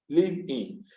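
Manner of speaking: "live in" as two separate beats, liv, in; teacher breaking "live in" into two parts; divided into syllables. Shown as a demonstration. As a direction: split "live in" after the v. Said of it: "I have divided into two parts".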